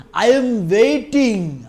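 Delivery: loud, very slow hero punch line; swaggering movie one liner. Retold or imitated. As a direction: drag out I am waiting like a hero. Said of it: "எங்கட தளபதியோட punch dialogue".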